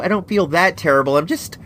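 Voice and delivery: blocked nose, nasal from a cold; stuffy nose. Real, not acted. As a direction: talk through a stuffed-up nose. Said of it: "you can definitely hear it".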